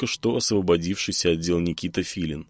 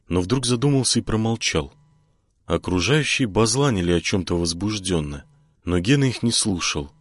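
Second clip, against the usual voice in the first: ordinary delivery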